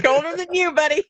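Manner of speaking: playful echo. Real, not acted. Echoes the co-host's joke back.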